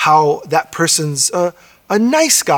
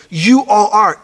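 "You" lifted higher and louder, falling through "all are"; stress on You; 4 semitones higher, 4 dB louder, slower than usual. Shown as a demonstration. Pastor repeating Jesus' announcement to the church, stressing You. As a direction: punch the word "You". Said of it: "He front loads it in his statement to emphasize".

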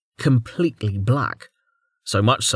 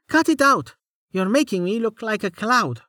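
annoyed protest; 11 semitones higher than usual. A narrator's reading. Amelia protesting.

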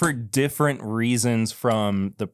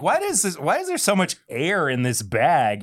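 imitating a baffled buyer, pitched up; puzzled customer; 5 semitones higher than usual. Podcast host imagines buyers opening the bag, mock puzzled. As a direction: play a mock-bewildered customer. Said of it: "and they're like".

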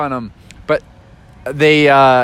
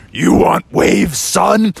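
lightly voiced Poseidon; much slower than usual. Poseidon challenges them.

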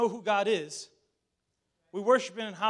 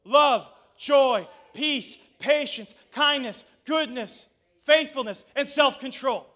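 call-and-response recitation; 5 semitones higher, 10 dB louder, slower than usual. Shown as a demonstration. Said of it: "say it with me".

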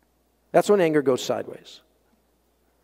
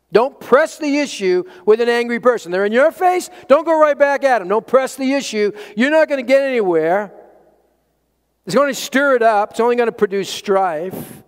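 raised, high-pitched preaching insistence; urgent exhortation; 6 semitones higher, 3 dB louder than usual. Real, not acted. Preacher warning against answering an angry person, urgent and raised. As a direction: drive "Don't press the issue" home in a higher voice. Preacher drives the point home.

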